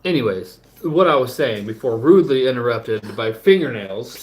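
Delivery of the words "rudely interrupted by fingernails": mock whisper aside. Real, not acted.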